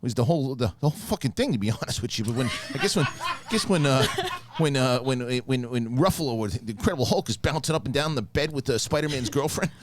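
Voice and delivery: a hint of a rambling movie-fan persona; Richard voice. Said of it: "I'll do Richard doing it".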